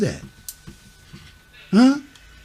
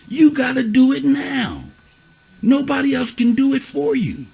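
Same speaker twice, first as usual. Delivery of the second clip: slow, weighty plea; earnest, drawn-out warning; urgent begging. Real, not acted. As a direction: drive each point home to make them change now. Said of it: "why I'm begging to you now".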